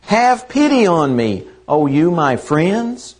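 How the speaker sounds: a gently pleading Job, slightly slowed; mild plea to friends for pity. Retold or imitated. Preacher voicing Job begging friends for pity, mildly pleading. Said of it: "the pity in Job's voice".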